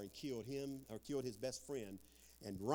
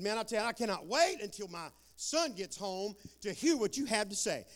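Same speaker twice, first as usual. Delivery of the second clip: excited dad; 8 semitones higher, 6 dB louder than usual. Retold or imitated. Excited dad quoting to preacher.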